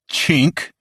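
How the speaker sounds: high, loud slur yelled; kid's yell. A narrator's reading. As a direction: yell it to insult. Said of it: "the fat boy yelled at him".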